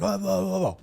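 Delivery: high, loud mock babbling; mocking protest. Man retelling the girlfriend's protest to friends, mocking high babble.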